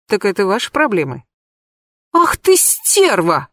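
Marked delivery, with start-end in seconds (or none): 2.1-3.5 slow, much higher shriek. Acted. Anka shrieks furiously at her rival. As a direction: shriek the insult. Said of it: "взвизгнула Анька".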